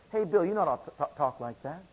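low, soft and kindly admonishing; hushed, gentle reproof; gentle correction. Acted. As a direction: talk someone down gently, voice dropped low. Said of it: "to gently talk to me and say".

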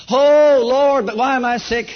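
mild re-enacted cry to God, loud on the Oh; anguished plea. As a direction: plead loudly, acting out past frustration. Acts out his anguished prayer while sick.

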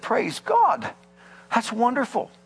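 high-pitched retold cry of praise; rejoicing shout. Pastor rejoices at the man's healing, mock shouting. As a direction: imitate a jubilant shout without much extra volume. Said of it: "He shouted. The pastor shouted".

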